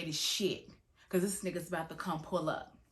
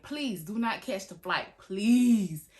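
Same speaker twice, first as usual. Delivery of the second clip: slow plea ending in a much louder please; pleading; 7 dB louder, much slower than usual. Retold or imitated. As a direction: beg him slowly, then cry out please. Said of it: "I was like".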